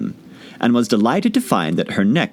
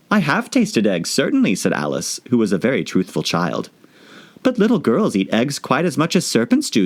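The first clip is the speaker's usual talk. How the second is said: earnest Alice; 3 semitones higher than usual. Acted. Alice explaining to the pigeon, earnest. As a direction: explain honestly.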